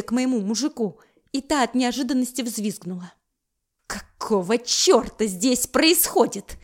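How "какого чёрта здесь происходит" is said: loud, slow furious growl. Acted. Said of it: "рыкнула я". (рычит от ярости)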